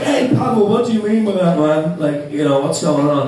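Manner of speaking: put-on a scared young guard asking carefully; nervous mock. Nervous question to Pavel.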